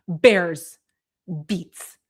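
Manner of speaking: a half-hearted impression of a self-serious office nerd; Dwight Schrute impression. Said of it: "impression of Jim Halpert doing his best impression of Dwight Schrute".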